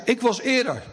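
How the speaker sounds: high, half-laughing imitation of an annoyed girl; mock angry girl. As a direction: play the cross girl, laughing through it. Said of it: "En ze wordt echt boos". (spottend boos meisje, veel hoger)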